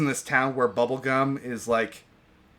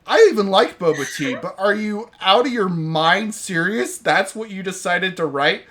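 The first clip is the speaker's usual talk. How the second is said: incredulous rant; 4 semitones higher than usual. Real, not acted. Complaining to friends about the plot in real exasperation. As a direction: scold the writers in disbelief, drawing out you stupid.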